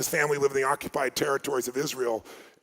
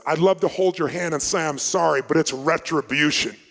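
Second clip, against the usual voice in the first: raised, declaiming imitation of the man; retold confrontation; 5 dB louder than usual. Man answering a grieving room, retold as a loud confrontation.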